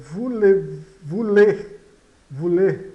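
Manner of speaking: "voulez" loud, with OU as a U sound. Shown as a demonstration. Teacher models for learners, loud "voulez" with U sound. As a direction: hammer out "voulez" as "vu-lê", loudly. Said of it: "tem o som de U".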